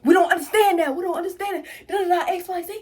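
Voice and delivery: hammed-up imitation of him shouting at her; mild mock yell, laughing through it; mock screaming friend. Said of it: "screaming out".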